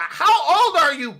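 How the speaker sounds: loud, high-pitched ranting demand; exasperated scolding. Acted. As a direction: yell it in slow disbelief. Mock scolding over the catchphrase.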